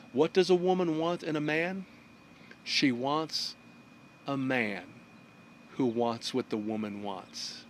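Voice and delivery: hushed, slowing and dropping as it goes; solemn reveal. Acted. Arthur answers the king to save his head, hushed and solemn. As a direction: deliver it piece by piece, with long pauses.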